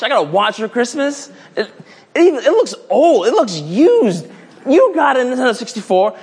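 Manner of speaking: put-on high, whiny kid voice; disappointed kid. Kid complaining about getting a watch, high and whiny. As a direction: sulk over a lousy gift.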